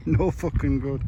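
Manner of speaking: mock Geordie accent, drawn out. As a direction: say it like a Geordie lad. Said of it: "Say that in a Geordie accent".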